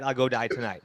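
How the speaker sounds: casual, easygoing acceptance; casual agreement. Shown as a demonstration. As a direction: agree as if to evening plans. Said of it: "In English".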